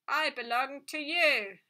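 a lifeless talking toy speaking through a small speaker; metallic doll voice. A narrator's reading. Doll greeting the girl who touched it, tinny telephone voice. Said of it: "metallic voice".

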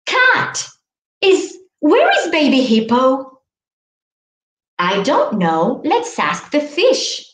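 lively read-aloud with animal calls; mild storybook voice for children; storytelling voice. Shown as a demonstration. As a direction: tell it like a picture book to kids. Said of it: "we can just use this story and sing".

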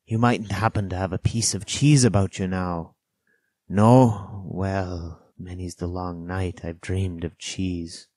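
slow, lightly voiced old castaway; Ben Gunn, wistful castaway. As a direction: drawl it slowly, like a longing castaway.

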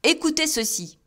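high exclaimed appeal; husband appealing to the elements in despair, high; despairing cry. A narrator's reading. Despairing husband calling out to the heavens. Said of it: "s'écria-t-il".

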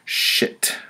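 under the breath, voiceless; whispered curse. Retold or imitated. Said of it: "I thought".

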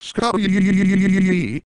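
long, high wavering holler; drawn-out yell. Acted. Calling out for Scotty, yelling long and high. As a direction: yell the name, stretched right out. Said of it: "Stop with your yelling already!".

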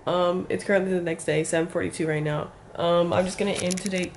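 hoarse morning voice; raspy whisper. Real, not acted. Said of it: "I have no voice".

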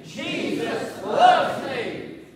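loud, high, drawn-out proclamation; like you mean it. Shown as a demonstration. Preacher leading the congregation in saying it, like he means it. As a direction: belt it out slowly with full conviction. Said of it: "Come on and say it like you mean it".

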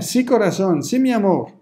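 affectionate Latin seller. Shown as a demonstration. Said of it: "La gente que habla así, los latinos hablan así".

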